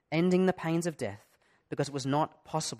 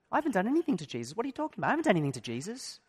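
fast, higher mock indignation; imagined listener denying, fast and offended; mock indignant protest; 4 semitones higher, much faster than usual. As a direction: brush it off, offended and quick.

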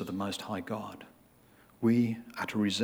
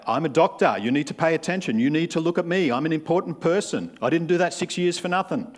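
pompous demand; 5 semitones higher, 4 dB louder than usual. Retold or imitated. Voicing a self-important doctor.

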